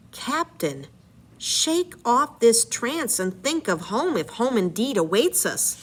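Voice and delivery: story narration, read aloud with energy; dramatic reading. Acted. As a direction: read the epic aloud to the class. Reads Odyssey aloud.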